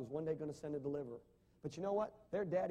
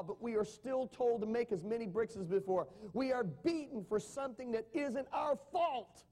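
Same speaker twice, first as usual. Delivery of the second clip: pleading; 5 semitones higher than usual. A narrator's reading. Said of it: "pleaded with him".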